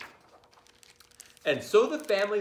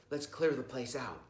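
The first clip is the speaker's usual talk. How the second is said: whispered; 5 dB quieter than usual. Acted. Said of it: "whispered the first burglar".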